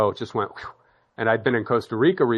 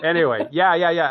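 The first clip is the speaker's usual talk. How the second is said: laughing; 7 semitones higher, 5 dB louder than usual. Real, not acted. Laughing after own joke.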